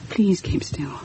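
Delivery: whispered, urgent plea; hushed plea. Acted. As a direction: whisper so the ghost won't hear. Narrator urges stillness before ghost.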